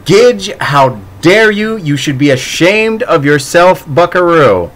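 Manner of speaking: playful telling-off; mock scolding. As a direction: scold them like a naughty kid.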